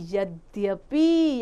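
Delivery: यद्यपि said very slowly, the य sound clearly heard; slow demonstration. Shown as a demonstration. Teacher showing children where य appears, slow. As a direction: stretch यद्यपि out syllable by syllable. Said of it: "देखिए यद्यपि य आ गया".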